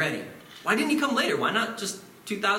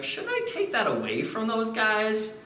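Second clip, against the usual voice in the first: God's voice; 5 semitones higher than usual. Acted. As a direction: sound like God fed up with proud people. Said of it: "God to be like".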